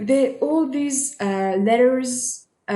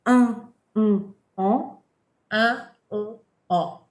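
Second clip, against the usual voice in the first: "Un" and "en" said with the nose held shut, blocked and flat; nose pinched. Shown as a demonstration. Teacher pinching nose to show nasal sounds change. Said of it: "Hear the difference without my nose".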